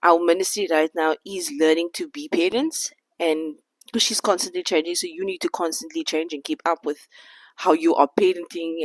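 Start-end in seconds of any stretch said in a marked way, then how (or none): 4.9-8.8 out of breath. Real, not acted. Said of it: "can you hear that I'm out of breath?".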